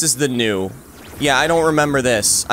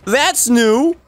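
rattled excitement; 9 semitones higher, 4 dB louder than usual. Real, not acted. Rattled by a new enemy.

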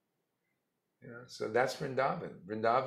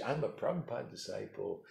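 boastful mock disciple; 2 semitones lower, 4 dB quieter than usual. Guru mocking a boaster, the first showy claim. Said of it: "hey, isn't that impressive?".

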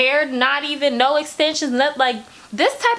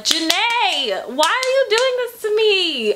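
mock whine; 7 semitones higher than usual.

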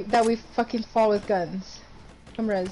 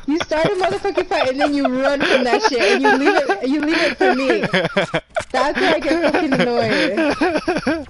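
laughing scold; 3 semitones higher than usual. Real, not acted.

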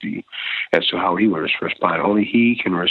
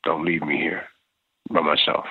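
pleading; 2 semitones lower than usual. Retold or imitated. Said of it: "I would say and plead to him".

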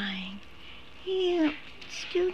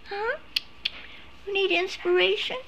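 higher, quick teasing question; playful pet talk; 9 semitones higher, 3 dB quieter, faster than usual. Real, not acted. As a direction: tease the pet brightly. High voice to pet.

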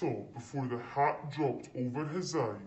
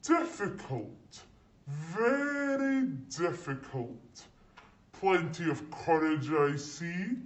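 put-on the Sorting Hat sizing up a nervous boy; Sorting Hat musing; 2 semitones higher than usual. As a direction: muse aloud like an old magic hat. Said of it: "said a small voice in his ear".

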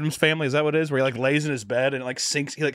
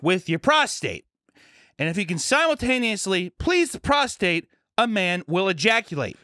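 high, deliberate lecture voice; imitating health teacher; 7 semitones higher than usual. Health teacher detailing anatomy to the class, mock instructive voice. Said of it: "She's like".

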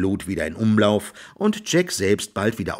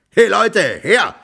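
loud, high summoning shout; sharp high-pitched call for help; 11 semitones higher, 7 dB louder than usual. A narrator's reading. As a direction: yell for the farmhands. Farmer summons his men.

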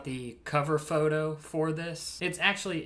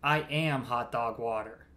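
lower, self-serious declaration; mock-solemn reply; 5 semitones lower than usual. Parody of the pickup line's answer, mock-solemn. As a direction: drop low with hammy gravity.

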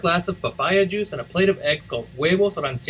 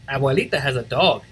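ordinary delivery, nothing marked

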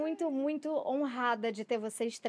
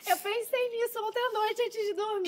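laughing; 10 semitones higher than usual. Real, not acted. Laughing after her recital.

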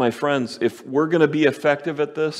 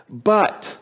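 father's plea; 8 semitones higher than usual. Acted. Father pleads with older son.

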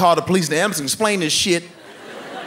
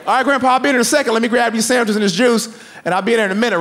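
calling back; 9 semitones higher than usual. Retold or imitated. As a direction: shout back across the house.

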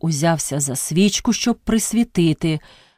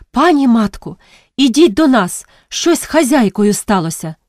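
frightened plea; 3 semitones higher than usual. Acted. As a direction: beg her to come, scared. Frightened girl begs for help. (налякане благання)

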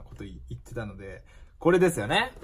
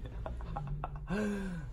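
laugh; 6 semitones higher, 11 dB quieter than usual. Real, not acted. Laughing at his own joke.

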